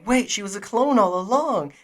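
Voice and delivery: loud, high-pitched belated realization; mock astonishment. Host mocking themself as an idiot, loud mock astonishment. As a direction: act out a big, dim-witted revelation. Mocks own late realization.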